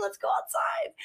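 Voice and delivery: high, breathy excited whisper. Acted. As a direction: whisper it like a secret plan. Playful hushed urging.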